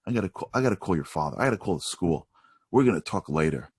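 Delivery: low, grave mother's warning; mock stern mom. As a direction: play a disappointed parent laying down the law. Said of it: "mom's not ... be like".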